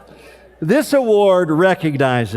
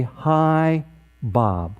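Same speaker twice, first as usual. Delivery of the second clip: pained. Retold or imitated. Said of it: "I heard the pain in my dad's voice".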